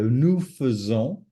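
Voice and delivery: "faisons" carefully said as "fuh-zon"; schwa in faisons. Shown as a demonstration. Teacher correcting the mistake, "faisons" with an uh sound. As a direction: give "faisons" an uh in its first syllable, clearly. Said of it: "the E is pronounced E".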